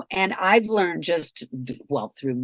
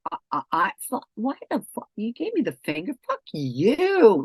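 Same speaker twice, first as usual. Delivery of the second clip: sputtering, higher-pitched mock outrage; mock indignation; 4 semitones higher, 3 dB louder than usual. Ego reacting to getting the finger, mock indignant. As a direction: sputter indignantly, then land hard on the insult. Acting out a road-rage ego outburst.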